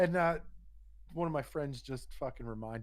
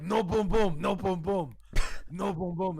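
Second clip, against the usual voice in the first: higher, louder repeated refusal; imitated protesting masseur; 5 semitones higher, 7 dB louder than usual. Masseur refuses the drunk customer, mock protest. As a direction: hammer it out high in simple broken English.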